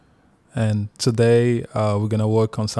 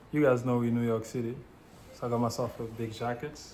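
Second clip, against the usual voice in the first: quiet character read; 9 dB quieter, faster than usual. Acted. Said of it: "I'll play it one more time".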